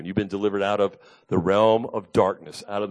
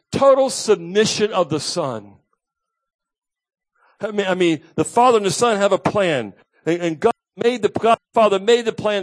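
louder, higher, impassioned sermon voice; preaching at full force; 10 semitones higher, 6 dB louder than usual. Acted. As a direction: proclaim as Jesus to the crowd.

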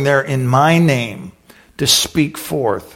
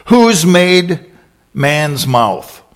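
louder, raised challenge; booming God; 3 semitones higher, 5 dB louder, much slower than usual. Acted. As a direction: thunder the question. God's booming answer.

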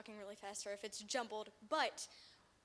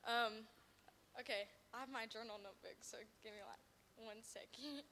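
stage fright; 2 semitones lower, 6 dB quieter than usual. Real, not acted. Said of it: "I'm a little nervous".

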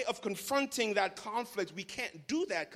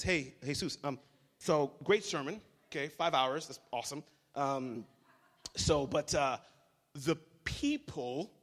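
low, soft, timid Peter voice; lightly voiced sheepish disciple; voicing Peter; 10 semitones lower, 6 dB quieter than usual. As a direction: ask Jesus meekly as Peter. Pastor voicing Peter softly.

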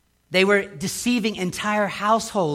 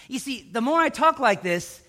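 ordinary talk, nothing marked

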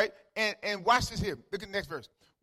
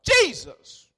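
high, loud cry for help; frightened disciples shouting; 9 semitones higher, 9 dB louder than usual. Acted. Scared disciples waking Jesus in the storm, shouting. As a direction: shout his name to wake him in alarm. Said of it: "the disciples woke him up shouting".

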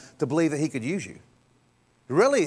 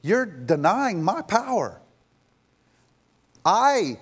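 raised, slow, weighty declaration; emphatic, higher preaching voice; God's emphatic rebuke; 4 semitones higher, slower than usual. Acted. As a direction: drive each word home as God.

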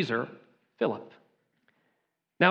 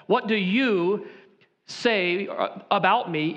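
slow start with "you" stressed; emphatic you; slower than usual. Shown as a demonstration. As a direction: put "you" in the emphatic spot. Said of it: "It's in the emphatic position".

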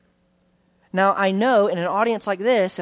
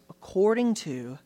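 slow, hushed quote; 6 semitones lower, 7 dB quieter than usual. Shown as a demonstration. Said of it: "this little prepositional phrase".

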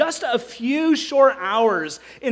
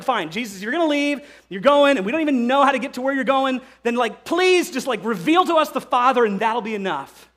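exasperated; 2 semitones higher than usual. Retold or imitated. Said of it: "It's like".

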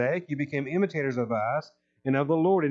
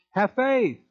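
raised, urgent exhortation; urging; 4 semitones higher, 3 dB louder, slower than usual. Retold or imitated. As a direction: press the church to hold on. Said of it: "he tells the church".

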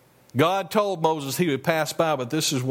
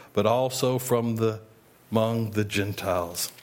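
scripture reading; 2 semitones lower than usual. Acted. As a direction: read the passage solemnly from the pulpit. Reads scripture passage aloud.

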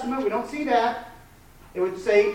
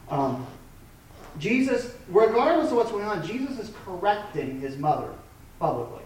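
ordinary talk

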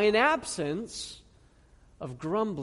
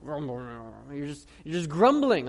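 mock grumbling; 4 semitones lower, slower than usual. Shown as a demonstration. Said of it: "it just kinda sounds".

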